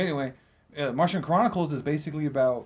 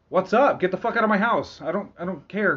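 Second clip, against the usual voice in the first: higher, louder, dismissive; annoyed Martian; 4 semitones higher, 5 dB louder than usual. Retold or imitated. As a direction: shoo them away. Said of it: "the Martians are like".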